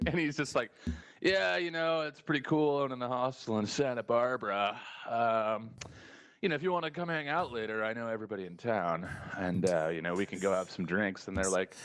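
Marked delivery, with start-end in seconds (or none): 1.2-11.3 slimy guy. Retold or imitated. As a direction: play the sleazy hostel owner hitting on girls. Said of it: "he was just so slimy".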